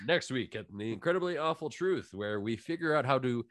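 hammed-up tune-in plug; mock promo announcer. Host plugging next week's show, mock announcer.

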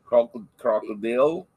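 attempted Australian accent; halting stab at an Australian accent. Shown as a demonstration. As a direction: try out Australian vowels, a little punched. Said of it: "You gotta do a lot of A's".

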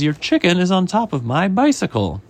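mild high-pitched protest; inspector's complaint. Acted. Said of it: "He says".

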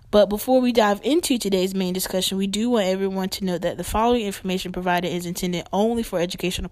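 formal scripted announcement; disclaimer read. Acted. Host warning listeners before the main discussion, formal disclaimer read. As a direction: read out the legal notice evenly. Reads the show's medical disclaimer.

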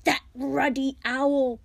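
slow, furious high bellow; Uncle Vernon's thunder. A narrator's reading. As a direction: thunder it out, each word drawn out. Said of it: "the thunder of Uncle Vernon's voice".

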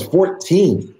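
high, incredulous echo of the age; shocked question. Retold or imitated. Club owner hearing the kid is fourteen, high shocked echo. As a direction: echo the number back in disbelief. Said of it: "She goes".

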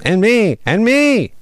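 high, loud little voices; squeaky chime-in. Acted. Other weasels joining from the bushes, high squeaky. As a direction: pile in one after another, squeaking.

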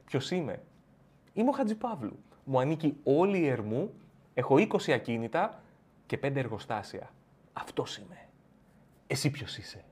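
soft, cold menace; menacing boast. Acted. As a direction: quietly threaten like a mogul. Tycoon asserting identity.

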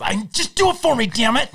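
hammed-up Stewie yelling; mock angry demand. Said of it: "And goes".

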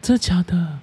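high-pitched really; surprised disbelief. Real, not acted. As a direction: ask in amazed disbelief. Host surprised at first place.

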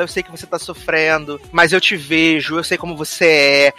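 low, soft acted comfort; gentle reassurance. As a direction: voice a consoling sheriff, lightly. Retold sheriff comforts Clay.

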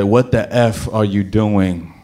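slow, confused groggy question. Retold or imitated. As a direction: ask it slowly, half awake. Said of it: "And then when he said".

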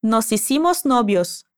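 Nos hicimos novios run together smoothly; linked phrase. Shown as a demonstration. Teacher linking the words for the student to repeat. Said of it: "conectando as palavras".

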